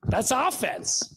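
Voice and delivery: slow, drawn-out punchline; deliberate slow punchline; slow emphatic verdict. Shown as a demonstration. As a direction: land the point slowly. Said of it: "slow emphatic repeat of point".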